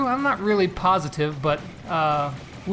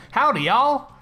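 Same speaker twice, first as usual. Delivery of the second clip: light mock Southern greeting, higher; cheery put-on Southern howdy; playful Southern accent; 5 semitones higher, slower than usual. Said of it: "'cause that's what we say in the South".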